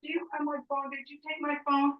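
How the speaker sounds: high call to someone in another room; yelling across the room. Real, not acted. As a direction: call out from a distance. Calling out to find phone.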